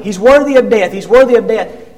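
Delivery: loud accusing shout of a mob; angry crowd shouting for death; crowd yelling. Acted. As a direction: yell it as the furious crowd. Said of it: "everybody starts yelling".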